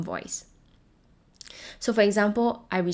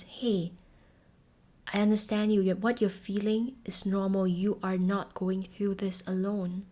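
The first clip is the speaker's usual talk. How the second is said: gentle reassurance; 4 dB quieter than usual. Shown as a demonstration. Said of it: "as if I'm swallowing back tears".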